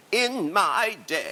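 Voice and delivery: slow, drawn-out nostalgic grumble; deliberate, spaced-out mock lament; mock old-timer. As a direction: lightly play the old-timer reminiscing.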